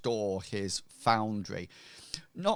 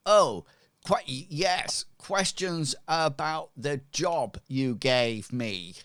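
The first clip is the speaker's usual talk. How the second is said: higher, loud stammered start; stumble, then recover in a raised voice; flustered blacksmith; 5 semitones higher, 5 dB louder than usual. Acted. Blacksmith covers for the visitors' questions about a job, flustered. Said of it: "he says".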